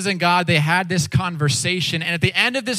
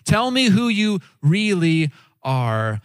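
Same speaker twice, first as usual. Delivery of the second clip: slow, weighted words; probing plea; slower than usual. Retold or imitated. Moses asking God for his identity, slow and probing. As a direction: ask it slowly, pressing for the real answer. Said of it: "he's saying".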